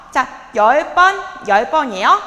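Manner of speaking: loud, slow call to the class; barking gym coach. Shown as a demonstration. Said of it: "coach calling out the set".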